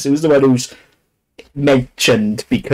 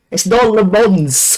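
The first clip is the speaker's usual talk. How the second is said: "not" stressed, the whole phrase drawn out slowly; exasperated correction, stress on "not"; 8 semitones higher, much slower than usual. Shown as a demonstration. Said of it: "you frustrate the hell out of me with it".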